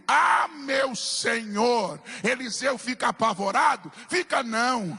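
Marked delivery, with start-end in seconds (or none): 0.1-2.0 long, drawn-out mock cry of alarm; slow, preached imitation of a distressed cry; retold cry. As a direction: stretch out the servant's cry, without yelling. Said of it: "Ele dá um grito".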